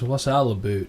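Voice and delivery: light Canadian "about", said like "a boot"; Canadian accent. Shown as a demonstration. Podcaster showing a Canadian dialect, light Canadian accent. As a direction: demonstrate the Canadian vowel in "about". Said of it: "the big one for Canada is".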